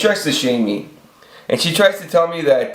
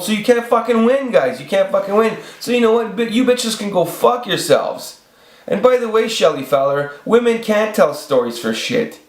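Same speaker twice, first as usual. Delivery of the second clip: exasperated rant; 8 semitones higher than usual. Real, not acted. Ranting at women who shame him.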